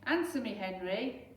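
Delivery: a firm mother's shout; Mum shouting. Acted. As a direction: insist loudly on an answer. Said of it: "shouted Mum".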